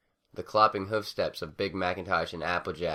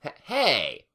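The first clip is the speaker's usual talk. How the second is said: barked call; 8 semitones higher, 6 dB louder than usual. A narrator's reading. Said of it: "noisily barked".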